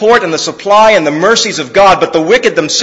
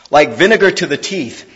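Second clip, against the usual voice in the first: dramatic reading with little outbursts; read with emphasis; 4 semitones lower than usual. Shown as a demonstration. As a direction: act out the sting of each image. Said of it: "I'll read it with a little bit of emphasis".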